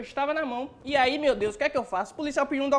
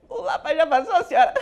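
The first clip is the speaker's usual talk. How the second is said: choked sob, higher and louder; mock crying; 4 semitones higher, 8 dB louder than usual. Boy crying to the woman who asked what happened. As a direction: blubber it like a hurt kid. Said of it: "tô chorando".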